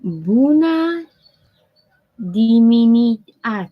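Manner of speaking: attempting Romanian greeting with Italian-French flair; mock Italian-French accent. Shown as a demonstration. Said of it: "let me try it".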